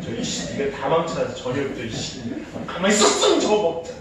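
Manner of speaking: fast irritated scolding under the breath; grumbling angry mom. Retold or imitated. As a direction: blame the kid with every word. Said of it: "레이저를 쏘는 거예요". (아이를 탓하며 투덜대는 엄마의 짜증)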